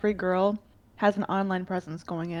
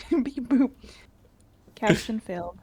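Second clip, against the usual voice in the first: robot voice; 3 semitones higher than usual. Pretend. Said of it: "If you're a robot".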